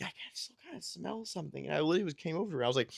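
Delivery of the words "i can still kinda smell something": much softer, half-hushed imitation of wife; quiet mock muttering. Wife still sniffing around the care unit, hushed mock voice. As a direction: say it almost under your breath, lightly mocking. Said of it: "just sniffing around".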